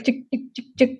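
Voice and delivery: laughing chick chick imitation; giggling through a printer sound; inkjet printer noise. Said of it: "The inkjet is".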